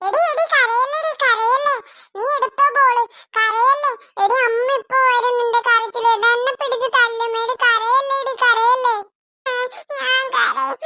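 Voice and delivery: high, loud frantic begging; panicky pleading. Acted. Boy begs his crying sister to stop, high and frantic. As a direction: hush her before mother hears.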